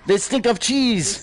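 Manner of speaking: mock French accent, slow and drawn out; hammed-up French accent, stretching the insult; outrageous French accent. Player mocking opponents as a Frenchman, outrageous French accent. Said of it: "speak with this outrageous accent".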